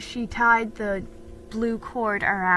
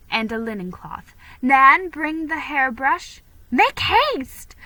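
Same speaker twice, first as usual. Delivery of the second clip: excited orders; 3 semitones higher, 4 dB louder than usual. Acted. Mother gets the household readying Felicity, bustling. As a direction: hurry the household along.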